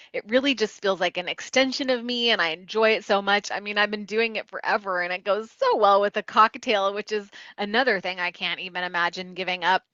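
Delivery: chatty client rambling on, in quick bursts; lightly acted gushing avalanche of talk; real talker client. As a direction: play a talker who barely pauses. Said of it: "if a person is a real talker".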